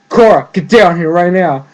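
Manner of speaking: loud mock scolding; retold stern order. Tenzin ordering Korra down from the roof, mock stern shout. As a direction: imitate a teacher ordering a pupil down, loudly.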